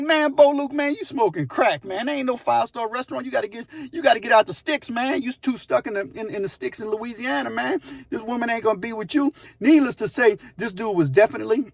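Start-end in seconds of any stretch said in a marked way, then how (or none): 0.0-9.3 higher, retold pile-on of scolding; exasperated scolding. Inmates tell Bo Luke to get real, exasperated scolding. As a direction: set a deluded friend straight, mock exasperation.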